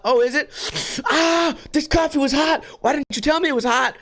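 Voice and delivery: mock the dumb customer with a yelp; hammed-up shrieking customer; mock whiny customer. Acted burned customer, mocking.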